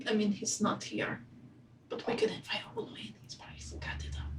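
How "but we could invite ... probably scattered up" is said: stage whisper. Acted. Whispering in-game.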